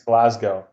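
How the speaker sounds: Glasgow with a long "go" ending; pronunciation query. Shown as a demonstration. Host tries out a listener's town name, questioning pronunciation. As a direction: say GLASGOW to rhyme with "go". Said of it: "It sounds weird. I don't know which one".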